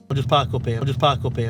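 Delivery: flat northern A in "park", like "pack". Shown as a demonstration. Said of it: "listen to how he says park".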